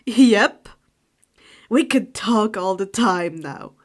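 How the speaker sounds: loud cheerful reply; eager exclamation. Acted. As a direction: exclaim it gladly. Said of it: "Sirius exclaimed".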